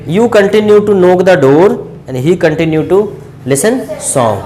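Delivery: very slow, word by word; measured classroom dictation pace. Shown as a demonstration. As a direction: read it out slowly for the class to copy. Teacher dictates English model sentence.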